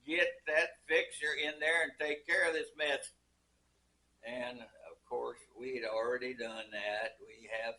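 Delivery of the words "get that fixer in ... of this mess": a mock holler down the phone, only a little louder; mild retold holler. Family boss on the phone ordering the fixer, a mild mock holler. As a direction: bark the order like the boss, lightly hammed-up. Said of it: "on the telephone hollering".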